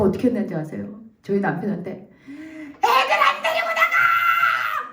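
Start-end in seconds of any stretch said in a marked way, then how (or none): 1.9-4.9 drawn-out high screech at husband; crazed yell. Retold or imitated. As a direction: scream it like a madwoman. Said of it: "막 소리를 지르는 거야. 미친 여자처럼". (미친 여자처럼 소리 지르기)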